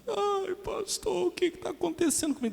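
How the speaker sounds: squeaky, exaggerated lament; mock whining message. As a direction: imitate a self-pitying plea to the pastor. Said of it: "Aí manda lá a mensagem".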